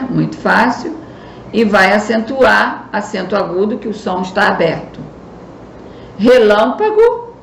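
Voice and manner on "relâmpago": "Relâmpago" devagar, com LÂM fechado e destacado; sílaba tônica fechada. Shown as a demonstration. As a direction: alongue o LÂM de "Relâmpago", subindo o tom. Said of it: "Você já sabe que é o lã". ("Relâmpago" pausado, marcando a sílaba LÂM)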